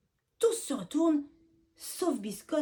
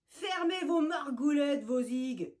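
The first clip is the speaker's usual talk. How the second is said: mild mock yell; 4 semitones higher, 3 dB louder than usual. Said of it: "hurle le chef de la bande".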